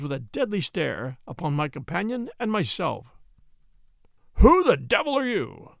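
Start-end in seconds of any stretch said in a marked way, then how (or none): 4.3-5.8 loud, higher, booming challenge; furious baronet thundering at strangers in his vault; thundered. A narrator's reading. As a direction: roar it at the intruders. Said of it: "he thundered".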